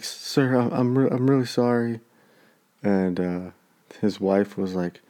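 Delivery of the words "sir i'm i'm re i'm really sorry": imitating a shaken kid, slightly higher; nervous retold apology. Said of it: "just shaking like a leaf".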